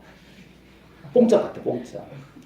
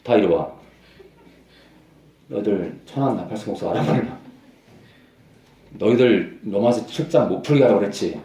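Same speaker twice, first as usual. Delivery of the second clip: Satan scolding. Acted. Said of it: "사탄이 아주 꾸짖었을 거예요".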